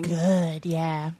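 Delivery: odd muffled voice, like talking through a cheeseburger; weird voice. Real, not acted. Host apologizing after saying it's good, odd muffled voice. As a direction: let the words come out oddly thick. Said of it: "Ooh, sorry for that voice".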